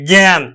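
জ্ঞান said as gæn, open æ vowel; a careful model of জ্ঞান as gyan; pronounce it right. Shown as a demonstration. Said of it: "এইভাবে উচ্চারণ করি".

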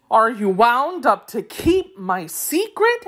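high, wavering-tune question; anxious. A narrator's reading. Wheeler checking with Tik-Tok, mildly anxious. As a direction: ask with a touch of worry in a high voice. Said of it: "asked the Wheeler anxiously".

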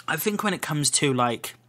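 slightly croaky after a cough; croaky throat. Real, not acted. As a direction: talk through a rough, croaky throat. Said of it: "croaky throat".

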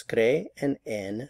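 "cre and en" slowly, as separate beats; slow teacherly "cre" and "en"; syllable by syllable. Shown as a demonstration. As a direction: split it for learners, "cre", then "en". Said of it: "two syllables".

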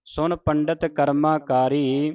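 slow, measured recitation with drawn-out vowels; scripture recitation. Shown as a demonstration. Teacher reciting a shabad for the congregation, slow measured recitation. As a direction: recite the sacred verse slowly, stretching line endings.

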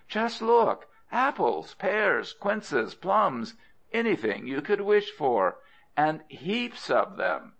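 high, excited listing of treats; enticing. Acted. Crocodile luring Monkey across the river, enticing. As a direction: tempt with each item, pitched high.

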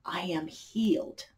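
I am healed breathed as a soft whisper; hushed, certain whisper of I am healed; soft affirmation. Shown as a demonstration. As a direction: whisper I am healed gently, like a settled truth. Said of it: "So instead of saying".

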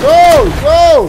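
loud urgent commands; shouting. Real, not acted. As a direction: bark them forward. Urging troops forward.

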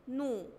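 "نو" sounded as one lone syllable; damma sound. Shown as a demonstration. Teacher shows noon with damma, "نو" sounded out. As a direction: say "نو" as noon with a u vowel. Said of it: "عليها ضمة هنطق وأقول".

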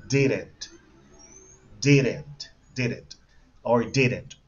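"didn't" repeated as separate clear examples; pronunciation model. Shown as a demonstration. Teacher has the class listen, "didn't" pronounced as a model. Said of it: "Escuchen la pronunciación".

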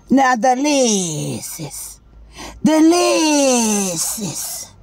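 slow, drawn-out mock crying; hammed-up slow lament; mock wail. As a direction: wail it like a fake mourner. Mock lament over missing hair.

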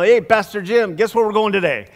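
high, loud, eager call to the pastor; beaming with news he can't hold in; excited greeting. Retold or imitated. Bus driver grinning at Pastor Jim with a surprise, eager and loud.

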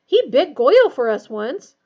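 loud, plaintive lament; miserable. A narrator's reading. Ron mourning his rat to friends, miserable. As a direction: wail it mournfully. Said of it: "Ron said miserably".

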